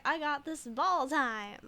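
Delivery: slow, hammed-up macho declaration; mock manly. Streamer playing a manly man, mild mock macho. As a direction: puff up like a jock. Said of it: "is that what men do".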